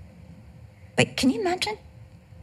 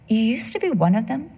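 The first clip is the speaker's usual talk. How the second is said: questioning. Retold or imitated. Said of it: "I heard the Holy Spirit go".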